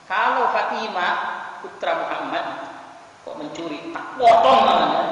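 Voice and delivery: imitated stern pronouncement; stern intonation. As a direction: declare a firm ruling, punching the last phrase. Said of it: "intonasinya begitu".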